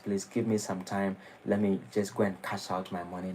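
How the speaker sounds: soft, wheedling plea to death's messengers; mock pleading. A hint of a vain celebrity begging the Yamadutas, softly pleading.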